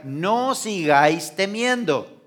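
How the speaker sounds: "No sigáis temiendo" stretched out; slow explanation. Shown as a demonstration. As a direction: spell out each word slowly. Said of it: "en griego esa expresión se dice". (explicación lenta)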